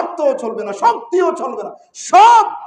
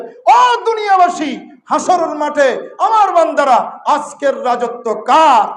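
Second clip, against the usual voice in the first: majestic call; 3 semitones higher, 4 dB louder, slower than usual. Acted. Preacher voicing God addressing humanity, slow majestic call. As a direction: call out to the whole world with majesty. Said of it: "জালালিয়তের শব্দ দিয়ে বলবেন".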